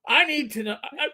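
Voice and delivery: lightly voiced detective interrogating; mild Columbo, probing suspect; Columbo impression. Detective grilling the neighbor about Toby, light Columbo voice. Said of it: "after my Columbo impression".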